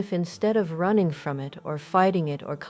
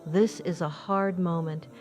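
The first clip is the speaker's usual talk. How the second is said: gentle, honest admission to yourself, unhurried at the end; quiet honest self-talk. Shown as a demonstration. Guiding the listener through quiet self-talk, gently honest. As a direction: say it softly, as a true thing, not a complaint. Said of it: "quietly, honestly".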